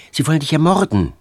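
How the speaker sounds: urgent warning. Acted. Girl warns him urgently.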